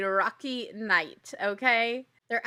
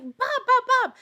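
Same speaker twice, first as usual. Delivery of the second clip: high excited calling of his name; high, loud eager calls; 14 semitones higher, 8 dB louder than usual. Retold or imitated. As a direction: shout his name across the crowd, thrilled. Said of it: "she's running to him and she's like".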